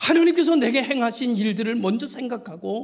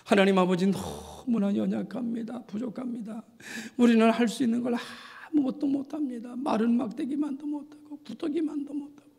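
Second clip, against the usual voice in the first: imitated self-abasing prayer; 4 semitones higher than usual. Preacher imitating an elder's self-belittling prayer at presbytery, mock feeble praying. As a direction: pray as a helpless, unworthy elder. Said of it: "장로님이 이렇게 기도하더라고요".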